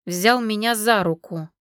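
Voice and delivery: ordinary delivery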